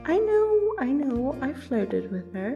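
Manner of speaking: high-pitched, defensive admission; exasperated concession. Acted. Flirter defending themselves to a friend, exasperated.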